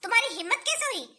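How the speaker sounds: harsh, rising scold at a freeloading son; angry scolding. Acted. Mother scolds son over jacket. (गुस्से में डाँटते हुए)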